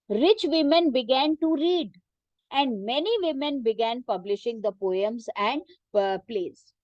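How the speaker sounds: reading a textbook sentence very slowly for students to follow; teacher reading the book aloud, slow and measured. Shown as a demonstration. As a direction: dictate it slowly, word by word.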